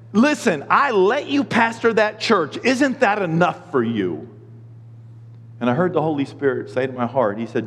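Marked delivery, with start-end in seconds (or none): 0.1-4.3 slow, higher mock rebuke; God scolding. God scolds the whining pastor, mock exasperation. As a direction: lecture like an exasperated father. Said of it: "I heard God say".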